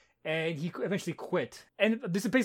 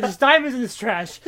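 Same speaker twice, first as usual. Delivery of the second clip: higher, louder delighted find; amazed; 5 semitones higher, 4 dB louder than usual. Retold or imitated. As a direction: wonder at the treasure. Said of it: "he's like".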